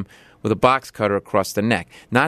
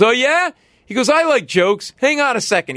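put-on drunk man; 12 semitones higher than usual. Drunk man excited the comic is telling jokes. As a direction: perk up like a sloppy drunk.

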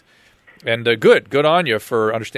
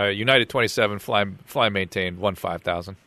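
pilot radio voice. Pretend. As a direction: read it like a cockpit radio call. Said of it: "in my pilot voice".

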